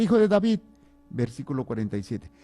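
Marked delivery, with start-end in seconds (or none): 0.0-0.6 high, loud call; acted shout. Voicing Jericho's blind man as Jesus passes, shouting. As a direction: cry out like a beggar to someone passing. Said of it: "que está gritando cuando oye".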